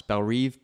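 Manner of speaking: "Reve" with a long ee, like reeve; Reve pronunciation. Shown as a demonstration. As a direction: say "Reve" to rhyme with leave. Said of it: "What do you think?".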